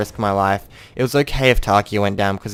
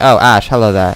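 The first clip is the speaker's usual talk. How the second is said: mock greeting; 10 dB louder than usual. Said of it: "Everyone's like".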